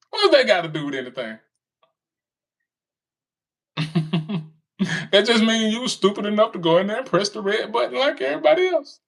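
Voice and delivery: ordinary talk, nothing marked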